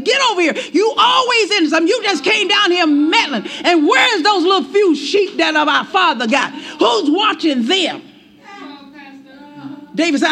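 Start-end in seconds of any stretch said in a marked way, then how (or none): 0.0-8.0 higher-pitched, scolding mock outburst; snapping older brother. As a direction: play a big brother telling off the youngest. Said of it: "he probably snapped and said".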